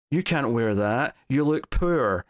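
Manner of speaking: imitating an insufferable snub. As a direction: say it as a lightly mocked, obnoxious put-down. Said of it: "Portia being insufferable for a moment".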